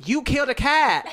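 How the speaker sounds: women yelling at the driver from their car; accusing shout. Retold or imitated. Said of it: "like that".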